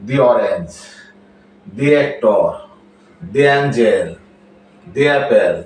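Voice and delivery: "the" pronounced dee before a vowel sound; long ee vowel in "the". Shown as a demonstration. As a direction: say THE as dee, each example set apart. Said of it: "তাহলে তার উচ্চারণ হবে দি".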